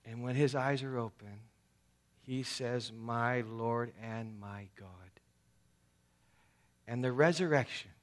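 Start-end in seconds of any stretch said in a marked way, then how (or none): 2.9-5.1 slow hushed whisper of awe; whispered reverent confession; awed whisper. Retold or imitated. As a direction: breathe it out, overwhelmed.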